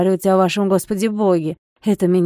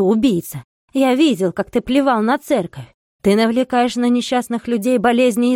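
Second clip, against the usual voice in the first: loud, raised, raging accusations; furious tirade; 3 dB louder than usual. Acted. Monk curses the old man as a sorcerer, raging loud. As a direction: hurl curses at him without pause. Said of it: "он бормотал".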